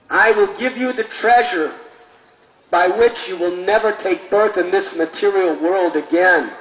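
loud proclamation. Acted. Ramanuja proclaiming to the crowd, loud. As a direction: announce it to the multitude. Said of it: "called with a very loud, tumultuous voice".

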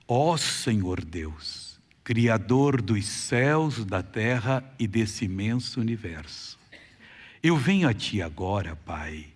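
solemn prayer. Acted. Leads a healing prayer.

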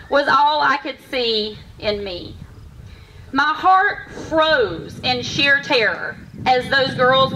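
measured rhyming storytelling, pausing between lines; heartfelt poem, phrased line by line; poem recitation. Acted. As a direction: recite a personal poem to an audience. Recites own poem on stage.

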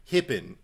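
"hippin", the first vowel squeezed up towards "hep"; "happen" as "hippin". Shown as a demonstration. Spelling the movie lead's pronunciation, "happen" becomes "hippin". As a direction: say "happen" tight-jawed as "hippin". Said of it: "H E P P I N".

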